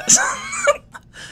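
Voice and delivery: squealing laugh; a shrieking burst of laughter; high laugh. Real, not acted. Embarrassed over press tournament.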